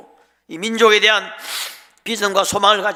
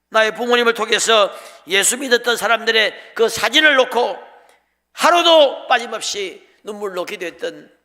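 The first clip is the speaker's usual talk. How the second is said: loud, insistent preaching delivery; impassioned retelling in the missionary's words; fervent quoted testimony; 5 dB louder than usual. Acted. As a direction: press each phrase out with force. Acted testimony of missionary, rising.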